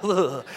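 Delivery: shivery "ugh" of dread; mock shudder. Preacher imitating his own shivers, mock shudder. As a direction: act out a shiver down the spine. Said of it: "shivers down my spine".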